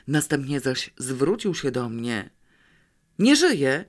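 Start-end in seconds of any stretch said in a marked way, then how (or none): 3.2-3.8 high, loud shout in horror; agitated shout. A narrator's reading. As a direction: yell it out in panic over the body. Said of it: "krzyknął głupio w okropnym wzburzeniu".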